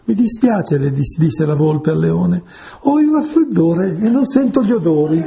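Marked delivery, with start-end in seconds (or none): 0.0-0.8 lightly voiced fox, higher-pitched; sly fox. A narrator's reading. Fox dodging the lion's trap, sly mock apology. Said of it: "l'animale furbescamente non cadde nella trappola". 2.8-5.2 higher-pitched, crafty excuse; sly fox. A narrator's reading. Fox excusing herself to the lion, sly mock innocence. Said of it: "l'animale furbescamente non cadde nella trappola".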